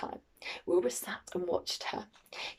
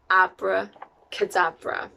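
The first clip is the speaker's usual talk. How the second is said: slow, louder magic word; shouted spell; 5 dB louder, slower than usual. A narrator's reading. Winnie in her garden casting magic, mildly shouting. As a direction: proclaim the spell, stretched out. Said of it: "and shouted".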